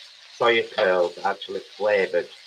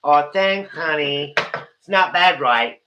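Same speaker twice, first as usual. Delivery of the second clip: high, loud camp American voice; hammed-up camp American accent, much higher and louder; 6 semitones higher, 8 dB louder, slower than usual. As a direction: thank the viewer as a camp American guy. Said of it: "really camp American guy".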